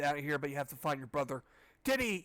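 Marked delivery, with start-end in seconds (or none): 1.8-2.2 shout. A narrator's reading. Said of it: "you shout".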